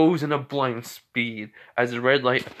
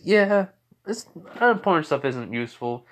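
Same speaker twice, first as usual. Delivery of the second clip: higher-pitched brush-off; mildly scornful acted reply; dismissive; 5 semitones higher than usual. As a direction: wave it away in a raised voice.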